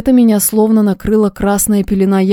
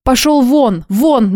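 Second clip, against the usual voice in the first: furious, higher and raised; angry shout; 4 semitones higher, much slower than usual. A narrator's reading. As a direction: throw him out of the room. Heroine drives out the impostor.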